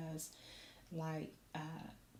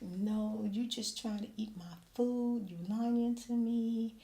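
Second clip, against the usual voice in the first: mock indignant; 3 semitones higher, 7 dB louder, slower than usual. Mom quarreling playfully with son.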